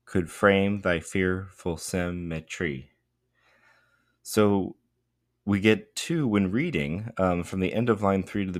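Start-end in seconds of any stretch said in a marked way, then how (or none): 0.1-2.9 slow, measured "Could frame thy fearful symmetry" in iambs; iambic stress. Shown as a demonstration. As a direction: lean on "frame", "fear-", "sym-", with "Could" and "thy" lighter. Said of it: "we switch then into iambs".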